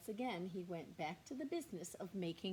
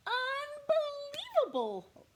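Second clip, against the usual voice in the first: rumbling; 9 dB louder, slower than usual. Acted. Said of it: "rumbled the bear".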